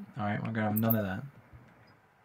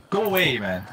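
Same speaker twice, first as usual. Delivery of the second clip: yelling; 3 dB louder than usual. Real, not acted. Yelling at an attacker.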